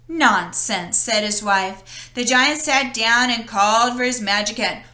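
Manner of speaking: lively read-aloud story voice; storybook narration. A narrator's reading. Narrator reading Jack and the Beanstalk to children, storytelling. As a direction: tell it like a bedtime story to kids. Reads fairy tale to children.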